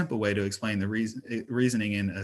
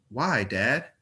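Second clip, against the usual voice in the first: put-on toddler voice; 3 semitones higher than usual. A narrator's reading. Toddler girl asks.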